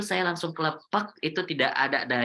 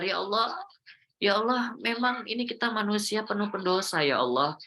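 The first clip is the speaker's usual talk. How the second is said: tearful prayer; 3 semitones higher than usual. Retold or imitated. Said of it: "saya nangis dalam hati itu".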